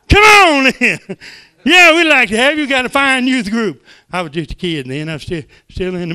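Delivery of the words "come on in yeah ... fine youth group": loud, high welcoming; loud, high glad welcome; joyful welcome. Retold or imitated. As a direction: throw the door open gladly. Welcoming GI loudly.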